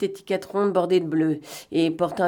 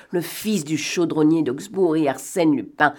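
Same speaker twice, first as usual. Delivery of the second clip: ordinary delivery, nothing marked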